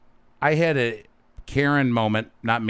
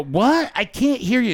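high, loud mock yell; mocking a yelling woman with fake deafness; mock shouting over noise; 6 dB louder than usual. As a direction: pretend a band is drowning her out. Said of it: "you go".

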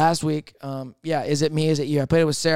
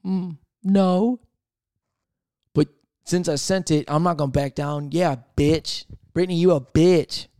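sassy defiance. Retold or imitated. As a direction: double down with attitude. Acted defiant texting quarrel.

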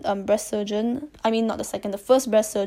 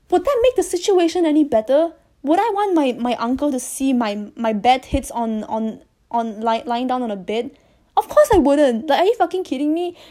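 indignant rant; 3 semitones higher, 3 dB louder than usual. Real, not acted.

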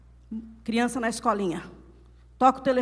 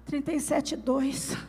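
feeble mock-sick answer, softer; feverish man whining; 5 dB quieter than usual. Man with a slight fever answers his wife, mock-pitiful. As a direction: report it as if gravely ill. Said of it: "Homem com gripe".

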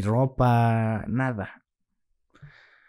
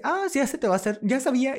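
much higher, light voice for the friend's answer; imitating the friend; 14 semitones higher, 3 dB louder, faster than usual. Friend answering a coming-out, in a higher imitating voice. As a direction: play the friend chirping she knew it. Friend's cheerful reply retold.

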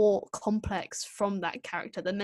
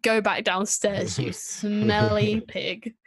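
mock disgusted Doctor; 4 dB louder, slower than usual. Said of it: "the Doctor's like".

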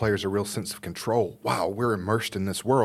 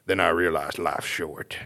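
lightly voiced cheerful villain; a touch of a laughing drug lord; evil grown kid voice; 4 semitones lower than usual. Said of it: "So he's like".

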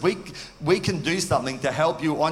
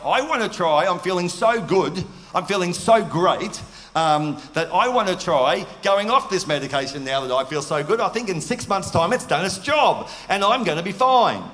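higher, brighter-pitched eager excitement; retold elation; 4 semitones higher, 3 dB louder than usual. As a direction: recall feeling on top of the world. Retelling telling Amanda he feels great.

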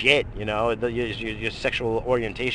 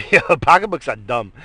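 loud; 3 semitones higher, 9 dB louder than usual. Real, not acted. Loud outburst after laugh.

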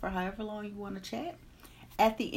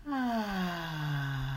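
audible sigh. Acted. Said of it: "release with a loud, audible sigh".

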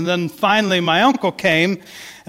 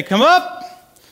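much higher, louder imitation of the uncle calling cows; uncle's high cow call; 11 semitones higher, 3 dB louder than usual. Imitating the uncle calling cows up the hill, high and loud. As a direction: pitch it way up like the uncle calling the herd. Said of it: "my uncle's voice is kinda higher than my voice".

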